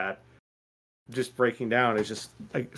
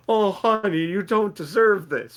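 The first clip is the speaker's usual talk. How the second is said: high, drawn-out pitying coo; doting pity; 7 semitones higher, 4 dB louder than usual. Retold or imitated. Reader consoling Felix for his heartbreak, doting pity. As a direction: gush with sympathy for a poor dear.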